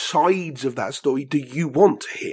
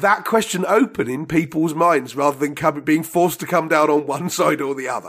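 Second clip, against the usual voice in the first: laughing. Real, not acted. Laughing through joking sign-off.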